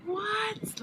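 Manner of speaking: high, mock-shocked "What?". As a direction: imitate the whole family gasping in disbelief. Family's shocked reaction.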